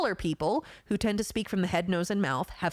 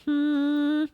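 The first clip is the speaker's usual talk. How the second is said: long high hum climbing into the head; drawn-out rising hum; 8 semitones higher, 5 dB louder than usual. Shown as a demonstration. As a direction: hum right up to the top of your head. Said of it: "top of the head".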